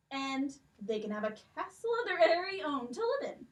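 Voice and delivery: put-on a stately old king with a lilt, questioning; king's voice. King questions the girls about the stolen necklaces, stately.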